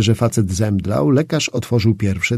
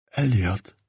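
mumbled; 5 dB quieter than usual. A narrator's reading. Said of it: "Tamten tylko wymamrotał".

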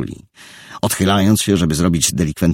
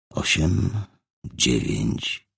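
soft, restrained count; quiet counting; 6 dB quieter, much slower than usual. Acted. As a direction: count to keep calm. Richard counting to calm.

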